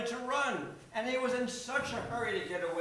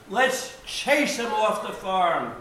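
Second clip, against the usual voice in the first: Trump-like voice; 5 dB louder, slower than usual. Acted. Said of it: "Sounds like Donald Trump".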